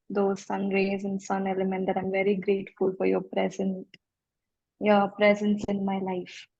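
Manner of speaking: calm, even, unhurried voice. Real, not acted. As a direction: speak soothingly, as if easing someone into relaxation. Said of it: "your voice is, uh, very calming".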